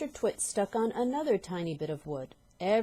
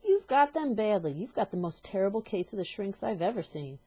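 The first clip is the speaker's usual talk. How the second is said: louder gloating verdict; gloating husband; 2 semitones higher, 4 dB louder than usual. Acted. Husband scaring his wife, gloating. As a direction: pronounce it with relish.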